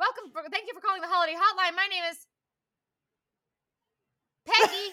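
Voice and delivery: loud, high mock hotline greeting. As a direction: ham up the long pause before Peggy. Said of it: "it's like".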